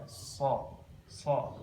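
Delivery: "So" with an airy, hissing s; heavy "So" with audible escaping breath; breath let out. Shown as a demonstration. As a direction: let air flow out on "So". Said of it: "hamas, yaitu mengeluarkan nafas".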